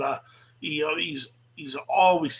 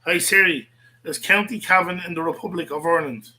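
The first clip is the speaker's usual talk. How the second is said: firmly raised voice at the phone; repeating to an unresponsive phone, louder; louder command to phone; 4 dB louder than usual. Real, not acted. To his phone that won't answer, louder and insistent.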